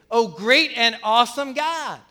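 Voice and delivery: slow, reverent address to God; slow worshipful praise. Shown as a demonstration. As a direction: savor each word in awe. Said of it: "He starts out very worshipfully".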